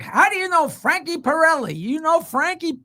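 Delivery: high, delighted-sounding disbelief; imitating an astonished old comic; amazed recognition. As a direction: react to an old pal's name out of nowhere. Shecky hears of mutual old friend.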